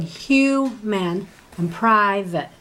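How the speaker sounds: human and private with the weight on hu- and pri-, slow; first syllable stressed. Shown as a demonstration. Teacher slowly modelling first-syllable stress for Garrett. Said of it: "it's actually the first syllable".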